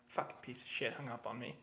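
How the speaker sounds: mock sour mutter after being hung up on; muttered curse. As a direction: curse under your breath after the hang-up. Role-played muttering after hang-up.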